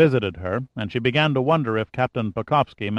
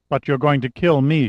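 "But you're going to kill me" as a statement; statement, not question; 4 semitones higher, 3 dB louder than usual. A narrator's reading. Prisoner to captor, "you're going to kill me" stated, not asked. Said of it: "more as a statement than a question".

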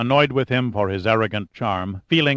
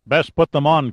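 muffled, louder and higher order; muffled command; 5 semitones higher, 4 dB louder than usual. Acted. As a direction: command through a hood. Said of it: "commanded a muffled voice".

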